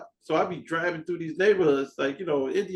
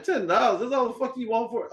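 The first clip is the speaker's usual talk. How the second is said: higher, incredulous repeat of the price; disbelief; 7 semitones higher than usual. Retold or imitated. Buyer stunned at the ten-dollar ask, incredulous. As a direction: rise up in shocked disbelief.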